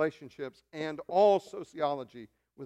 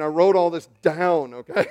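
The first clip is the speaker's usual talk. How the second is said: louder restated claim; 7 dB louder than usual. Shown as a demonstration.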